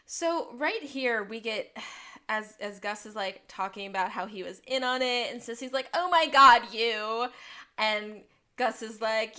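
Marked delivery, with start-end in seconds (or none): 5.9-7.3 loud, high burst, falling away on you; acted shocked exclamation. Acts out Sissy's startled reaction.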